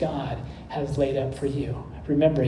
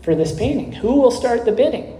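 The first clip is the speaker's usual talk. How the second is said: raised pitch, retold persistent appeal; mildly persistent; 6 semitones higher than usual. Auctioneer appeals to a silent room for a bid, mildly persistent. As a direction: press lightly for an opening bid, voice lifting. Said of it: "And he persisted".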